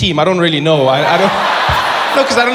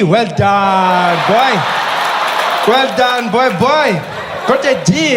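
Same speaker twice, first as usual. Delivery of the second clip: doting parent; 4 dB louder, slower than usual. Pretend. Parent praising poor result.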